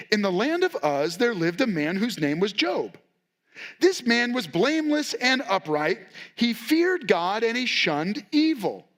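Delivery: storybook narrator. Shown as a demonstration. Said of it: "like if I was reading a story to my kids at night".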